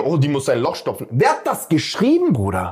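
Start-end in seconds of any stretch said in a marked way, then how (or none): 1.1-2.7 real exasperated rant; angry ranting. Real, not acted. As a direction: demand an answer, outraged. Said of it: "ich bin richtig sauer".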